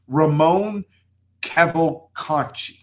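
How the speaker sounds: "Ramon Cavalcanti" said slowly, syllable by syllable; "Cavalcanti" drawn out with a hesitant try; careful name attempt. Shown as a demonstration. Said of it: "I'm probably gonna butcher, butcher his last name".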